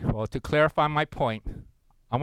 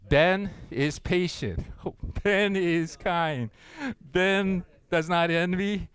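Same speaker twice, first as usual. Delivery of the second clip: slow, careful recitation with a few nervous laughs; slow reading; slower than usual. Shown as a demonstration. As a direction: read it slowly, your own name in place of love. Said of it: "Let's say it slowly".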